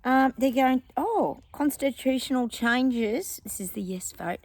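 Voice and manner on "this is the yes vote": whisper. Real, not acted. Aside while reading pamphlet.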